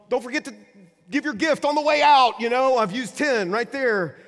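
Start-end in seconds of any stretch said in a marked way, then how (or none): 0.1-2.4 mock announcement.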